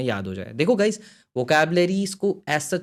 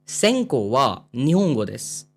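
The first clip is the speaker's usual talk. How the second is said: slow reading; slower than usual. Shown as a demonstration. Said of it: "reading dialogue slowly".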